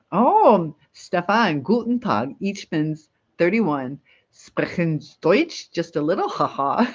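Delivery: put-on reading a comment in a German accent, slowing on the German words; imitating a viewer's German accent. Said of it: "in Samantha's accent, not mine".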